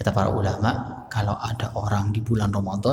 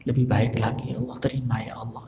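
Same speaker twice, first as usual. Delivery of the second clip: pleading prayer; 4 dB quieter than usual. Shown as a demonstration. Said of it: "Nangis ya".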